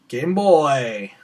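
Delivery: loud, drawn-out retold holler; imitated enthusiastic call; calling out a greeting. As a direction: hail someone by nickname, stretching the last word. Retelling his greeting called out.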